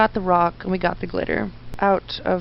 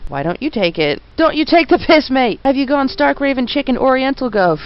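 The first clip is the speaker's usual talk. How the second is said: higher, louder Cockney copper seething with envy; envious Cockney policeman; 5 semitones higher, 5 dB louder than usual. Acted. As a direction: rant like a jealous London bobby. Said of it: "I swear people don't talk like that here".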